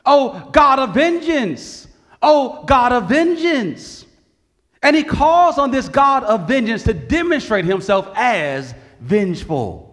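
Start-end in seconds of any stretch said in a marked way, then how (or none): 0.1-4.1 slow, drawn-out mild cry to God; measured, repeated plea to heaven. Retold or imitated. Psalmist cries out twice to God, slow earnest plea. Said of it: "that he cries out twice".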